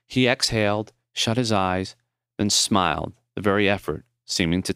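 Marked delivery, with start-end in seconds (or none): none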